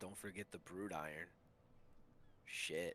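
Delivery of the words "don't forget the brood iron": muttering under breath, much quieter. A player character speaking in Dwarven, not meant to be heard: muttered under breath. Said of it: "I'll say kind of under my breath".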